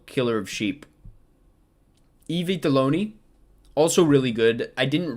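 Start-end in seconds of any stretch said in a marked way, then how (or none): 2.3-3.1 the title rolled out in Italian style, I Vitelloni; Italian pronunciation. Real, not acted. Film ranker saying the title the Italian way. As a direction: say I Vitelloni with Italian vowels, ee-vee-teh-LOH-nee. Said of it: "You don't need to do the Italian accent".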